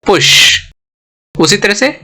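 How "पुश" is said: पुश with a brief u and long 'sh'; short vowel. Shown as a demonstration. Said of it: "ये short vowel हो गया". (पुश में छोटा उ)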